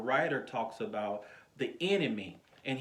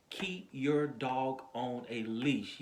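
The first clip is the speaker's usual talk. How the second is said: measured, word-by-word quotation; slow quoted saying; much slower than usual. Shown as a demonstration. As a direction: spell out the saying slowly.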